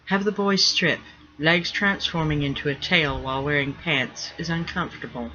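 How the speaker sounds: terse. Acted. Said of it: "her terse mental reply".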